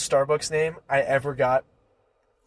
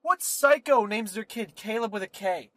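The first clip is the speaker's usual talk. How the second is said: high-pitched incredulous question; indignant, raised-pitch retort; mock outrage; 6 semitones higher than usual. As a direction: act out disbelief at a ridiculous choice. Acted outrage at odd spelling.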